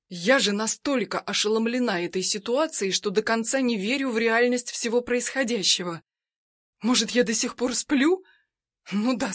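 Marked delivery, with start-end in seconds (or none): none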